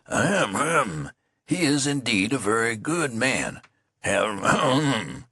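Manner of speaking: slow pompous throat-clearing colonel; mock colonel. Soldier mimics the colonel: slow pompous mock colonel. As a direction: puff up like a pompous officer. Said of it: "the colonel, he says".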